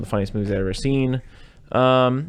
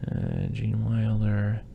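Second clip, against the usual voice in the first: usual speaking voice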